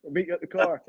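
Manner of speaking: lightly voiced worried minder; mock carer. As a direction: play the one steadying an old man. Jokey caretaker voice answering.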